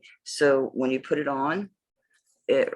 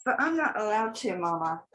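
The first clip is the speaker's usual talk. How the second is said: a light, higher whimper of a worried pet; mock scared dog voice; 5 semitones higher than usual. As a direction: voice the dog as timid and pleading. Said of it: "He's like".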